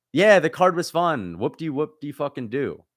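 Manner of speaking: bitter sarcastic cheer. Real, not acted. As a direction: drag it out with heavy sarcasm. Sarcastic about the fun card.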